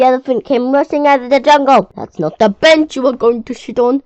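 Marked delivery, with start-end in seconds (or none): 1.9-4.0 bellowed. A narrator's reading. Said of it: "he bellowed".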